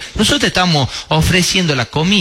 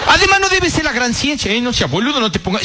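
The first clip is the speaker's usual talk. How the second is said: higher mocking guest voice; 5 semitones higher than usual. Guest mocking the host's cooking, higher voice. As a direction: toss it off high as the cheeky guest.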